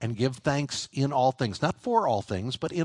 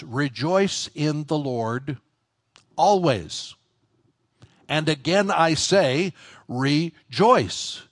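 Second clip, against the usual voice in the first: slow, louder preaching of the verse; proclaiming scripture; 2 semitones higher, 4 dB louder, much slower than usual. Real, not acted. Preacher calling his congregation to rejoice, slow and loud. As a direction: ring the verse out slowly.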